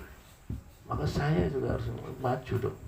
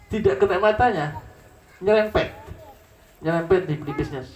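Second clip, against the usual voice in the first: excited storytelling; 9 semitones higher, 7 dB louder than usual. Acted.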